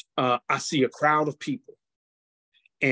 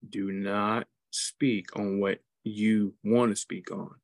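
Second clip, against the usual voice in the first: a calm divine command; solemn; 4 semitones lower than usual. Retold or imitated. Voicing the Holy Spirit.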